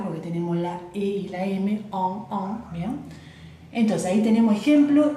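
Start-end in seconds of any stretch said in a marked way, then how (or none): 1.7-2.7 "en" as a pure nasal vowel, no N closed. Shown as a demonstration. Teacher explaining E and M, "en" said as a nasal vowel. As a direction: repeat "en" through the nose, consonant unsounded. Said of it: "bien nasal".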